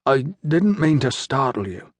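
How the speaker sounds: slow, careful words through a swollen jaw. A narrator's reading. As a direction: speak slowly as if your jaw hurts. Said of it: "he spoke slowly, trying not to let his swollen jaw mangle his words".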